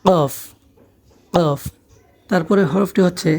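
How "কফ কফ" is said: কফ begun with a k further back than Bangla ক; কফ as "qoff"; deep Arabic Qaf. Shown as a demonstration. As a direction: demonstrate কফ, ending on a drawn-out f. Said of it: "অল্প একটু ভিতর থেকে".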